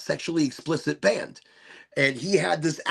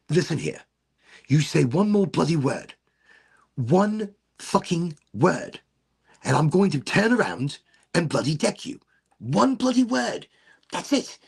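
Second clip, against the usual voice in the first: stern dad threat; 3 semitones higher, 3 dB louder than usual. Retold or imitated. Dad scolding son on the street.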